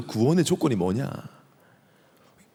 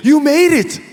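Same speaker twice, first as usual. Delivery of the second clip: loud, very high exclamation; excited shout; 12 semitones higher, 7 dB louder, much slower than usual. Acted. Old pastor greeting the robber in heaven, excited shout. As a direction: cry it out in amazed excitement. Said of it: "막 흥분해가지고 막".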